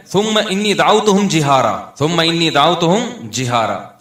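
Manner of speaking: steady, even-pitched Arabic recital; verse recited with lengthened vowels; Quran recitation. Real, not acted. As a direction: recite from memory in a flowing measured chant. Recites verse, repeats to recall.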